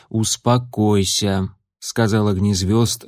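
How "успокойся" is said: calming. Acted. Calming a frightened friend.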